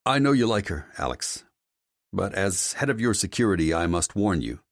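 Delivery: a hint of earnest security man; concerned security chief. Security head reports an incident to his boss, earnest character voice.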